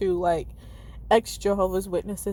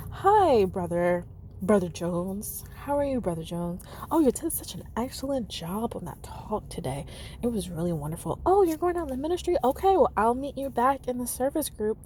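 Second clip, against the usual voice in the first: lightly put-on sweet congregation greeting; a hint of the polite Kingdom Hall voice, syrupy niceness; Jehovah's Witness tone. Shown as a demonstration. Ex-Witness demoing the old congregation tone for viewers, mildly sugary. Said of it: "Let me practice it".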